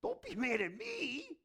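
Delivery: high, loud acted pleading; loud protest. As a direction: protest your innocence at full volume. God pleads with angry Pharisees.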